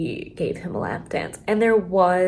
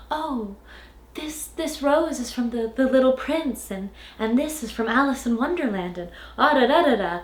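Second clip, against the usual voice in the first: higher, gushing schoolgirl voice; mock girly gushing; 4 semitones higher than usual. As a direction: gush over the tattoos, mocking. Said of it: "she's like".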